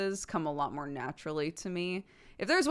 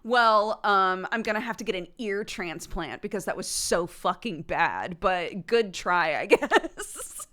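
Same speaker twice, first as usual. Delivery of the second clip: sarcastic critic; 5 dB louder than usual. Retold or imitated. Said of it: "there will be somebody who's like".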